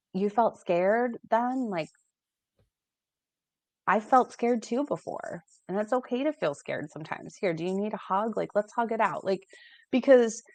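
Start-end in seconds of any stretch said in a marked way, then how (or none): 0.1-9.2 gentle validating. Retold or imitated. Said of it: "validating our kids and to say".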